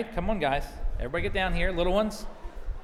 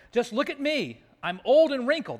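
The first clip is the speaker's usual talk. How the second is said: higher, complaining storybook woman; Naomi; 6 semitones higher, 5 dB louder than usual. Acted. Old widow lamenting her looks, hammed-up higher voice. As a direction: play up the self-pity for children. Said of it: "This is Naomi speaking".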